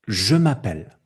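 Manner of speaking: "Je m'appelle" as one unbroken group; one rhythmic block. Shown as a demonstration. Teacher demonstrating group one, said as one block. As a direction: say "Je m'appelle" together in a single block. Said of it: "un bloc".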